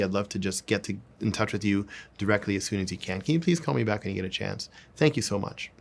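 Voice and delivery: level, businesslike, straight delivery; deadpan executive. Shown as a demonstration. Coach calling Cindy back, deadpan and executive. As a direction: keep it flat and executive. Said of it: "more deadpan, more executive level, more straight line".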